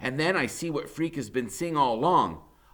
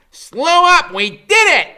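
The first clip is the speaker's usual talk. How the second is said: excited cheer; 16 dB louder than usual. Acted. Freak cheering from shoulders.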